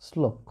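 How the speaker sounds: শ্লোক pronounced with initial s, not sh; dental S demo. Shown as a demonstration. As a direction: model শ্লোক with an s before the l. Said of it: "কিন্তু এটা উচ্চারণ". (শ্লোক-এর শ দন্ত স-এর মতো উচ্চারণ)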